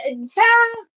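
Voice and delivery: exclaiming. Real, not acted.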